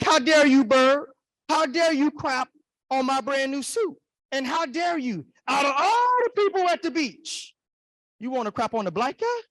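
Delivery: high-pitched, indignant comic rant; high, loud opening, indignation held to the end; mock anger. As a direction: rant at the culprit in hammed-up outrage. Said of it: "Oh, I was mad".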